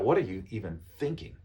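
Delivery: mildly confrontational questioning; understated accusing question; too strong. Shown as a demonstration. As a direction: ask it a touch too bluntly, as if challenging. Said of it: "too strong, right?".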